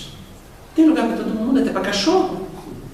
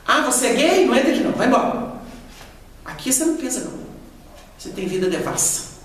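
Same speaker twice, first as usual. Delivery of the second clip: mock snobbish rejection; 3 semitones higher than usual. Mocking a medium turning away gay man.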